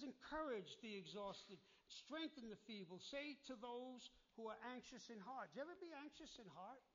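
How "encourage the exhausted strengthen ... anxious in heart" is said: scripture reading. Real, not acted. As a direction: lean into each phrase of the verse.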